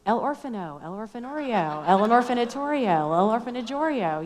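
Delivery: guessing at Spanish words in a hammed-up Spanish accent; playful fake Spanish accent; mock Spanish accent. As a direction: fumble through mock Spanish, trying each ending. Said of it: "say the word orphan with the Spanish accent".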